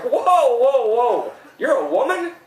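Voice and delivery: high, loud stunned whoa; mock shock. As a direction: act floored by the news.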